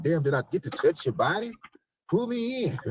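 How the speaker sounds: wanting a real hug; mock disappointed hug. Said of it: "you like".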